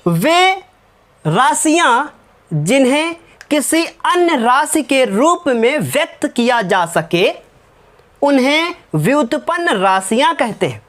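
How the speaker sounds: slow, word by word, so students can write; slow dictation. Shown as a demonstration. Teacher dictating a definition to the class, slow and deliberate. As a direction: dictate it slowly and evenly. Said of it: "लिखो, मैं बोल रहा हूँ".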